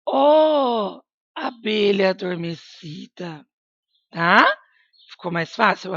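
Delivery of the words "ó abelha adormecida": exclaiming. Shown as a demonstration. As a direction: show the exclamation as you read. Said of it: "Osório exclama".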